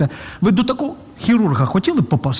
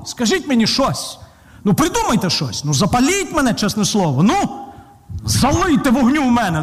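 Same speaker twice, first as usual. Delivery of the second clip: put-on begging, a bit higher than usual; mock pleading; 3 semitones higher than usual. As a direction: plead like someone begging for motivation. Acts unmotivated believer begging to be fired up.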